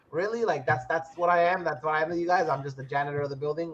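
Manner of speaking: understated, low-key indignation; retold fed-up griping. Flash pissed off at the team, retold fed-up griping. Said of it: "he's, like, really pissed off by it".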